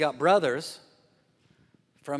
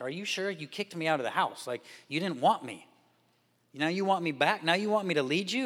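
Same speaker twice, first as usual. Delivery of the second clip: higher, disbelieving questions; can't believe they want him back; incredulous Jephthah; 3 semitones higher than usual. Retold or imitated.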